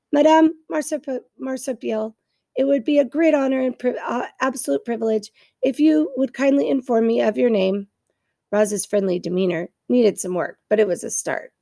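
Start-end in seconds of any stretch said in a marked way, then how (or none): 0.1-7.9 friendliest voice. Acted. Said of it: "in the friendliest voice she could muster".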